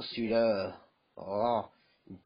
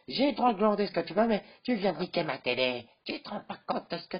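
higher, louder and fast; fast furious rant; 7 semitones higher, 4 dB louder than usual. Acted. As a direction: rattle it off in outrage. Furious about broken TV.

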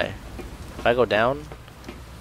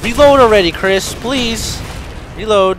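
high, loud pleading shout; exasperated yelling; 11 semitones higher, 9 dB louder, slower than usual. Real, not acted. Gamer urging Chris to reload, exasperated shout. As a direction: yell impatiently at someone too slow. Urges game character to reload.

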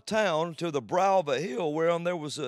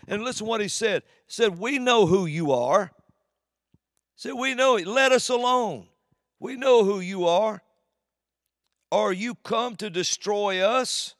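much higher, louder demon cry; fiery preaching; 7 semitones higher, 7 dB louder than usual. Acted. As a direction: shout the demon's words. Preaching at full force, demon quote.

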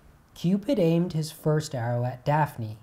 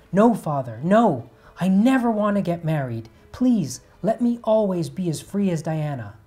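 loud, higher, desperate begging; frantic pleading; 5 semitones higher, 8 dB louder than usual. Acted. Daphne begging her father not to marry her off, frantic. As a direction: beg him as if your freedom depends on it.

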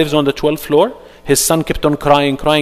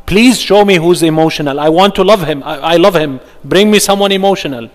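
mock pleading demand; 3 semitones higher, 5 dB louder than usual. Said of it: "I say".

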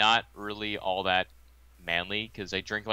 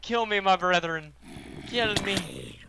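rising, ever higher pleading moan; zombie moaning; 12 semitones higher, much slower than usual. Pretend. Turned into a zombie, begging his friend to kill him, rising moan. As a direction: beg like a zombie pleading for death. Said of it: "I'm gonna turn into a zombie".

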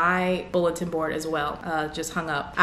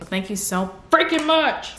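higher, slower, freaking stressed; drawn-out thanks; 7 semitones higher than usual. Real, not acted. YouTuber thanking a fan for a gift, freaking stretched and stressed. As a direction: lean hard on freaking.

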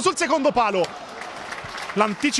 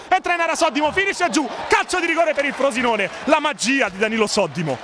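excited commentary; 5 semitones higher than usual. Real, not acted. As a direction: lift the voice as the chance builds. Penalty won, commentator erupts.

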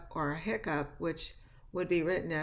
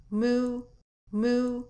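lightly imitated cow moo, long and high; spoken cow call, held on one note; 6 semitones higher, 6 dB louder than usual. Shown as a demonstration. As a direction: draw out a raised, loud moo. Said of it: "said the cow".

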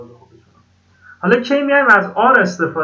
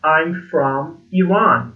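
slow, careful teacher examples; measured classroom demonstration; slow model sentences; much slower than usual. Shown as a demonstration. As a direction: pace it out for beginners to copy.

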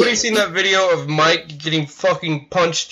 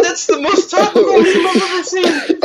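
high, squealed exclamations through laughter; helpless laughter; 9 semitones higher, slower than usual. Real, not acted. Reacting to topical meme, high laughing outburst. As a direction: cry out while cracking up, pitched way up.

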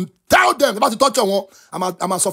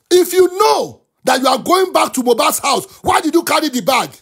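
heated accusation; 4 semitones higher than usual. Real, not acted. Accusing Prime Boy over the bag, heatedly. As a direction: hammer the accusation home.

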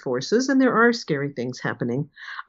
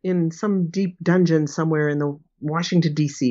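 mock dramatic. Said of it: "is to be very dramatic".

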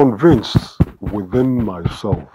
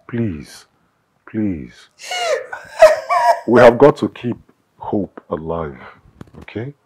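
gentle pleading. Acted. Husband soothes distraught wife.

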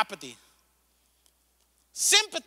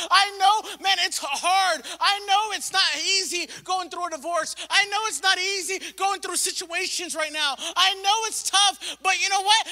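rising, louder heartfelt plea; empathetic church; 4 semitones higher, 5 dB louder than usual. Retold or imitated. Pastor voicing the church to the hurting, earnest and louder. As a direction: pour it out like you share their pain. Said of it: "a church that has empathy for the lost and says".

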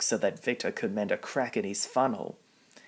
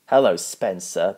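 booming greeting; 7 dB louder than usual. Acted. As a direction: boom it across the platform. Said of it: "the fat controller boomed".

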